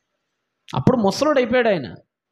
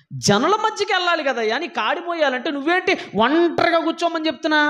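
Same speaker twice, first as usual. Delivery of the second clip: high-pitched, incredulous questioning; indignant protest; 5 semitones higher than usual. Acted. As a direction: protest an order that makes no sense. Acts out protesting to God.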